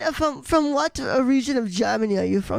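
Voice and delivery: halting mock German accent. Asking which region of Germany, mock German accent. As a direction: ask it in a fumbling German accent. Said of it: "German accents".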